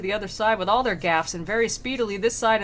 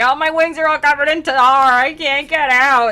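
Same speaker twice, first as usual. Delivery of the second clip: mock whining; 7 semitones higher, 11 dB louder than usual. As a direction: whine it in hammed-up helplessness. Acted stuck demons whining.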